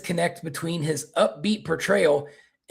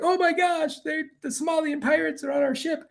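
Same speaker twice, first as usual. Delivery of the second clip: much higher, panicked cartoon yelp; scared French captain; 13 semitones higher than usual. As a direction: squeal it like a terrified captain. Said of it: "captain of this ship was scared".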